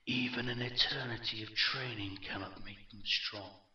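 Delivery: cold echoing villain, restrained; a touch of haughty menace; lightly voiced echoing dark lord. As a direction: pronounce it with measured contempt. Villain's speech continues.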